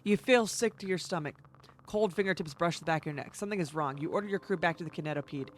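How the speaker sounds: subdued eerie game narration; story narration. Acted. Player reading out a creeping dread, subdued narration. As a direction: read it out quietly and evenly. Reads game's story text aloud.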